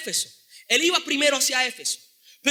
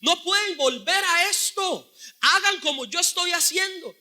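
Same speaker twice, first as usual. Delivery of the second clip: raised, indignant call-out, slowing on the second line; indignant rebuke; 3 semitones higher than usual. Retold or imitated. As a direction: rebuke them in disbelief. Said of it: "Pablo está indignado".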